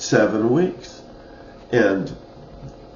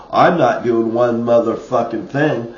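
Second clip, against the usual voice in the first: retelling a heated refusal, louder; hot, angry retort; 2 semitones higher, 5 dB louder than usual. Retold or imitated. Refusing the man's instructions in the park, hot and angry. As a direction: punch out an indignant refusal. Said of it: "I was hot".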